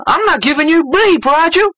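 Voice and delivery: high-pitched put-on Black American accent. Greyhawk refuses Raiju, in a put-on Black American accent. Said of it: "did just say that in a black accent".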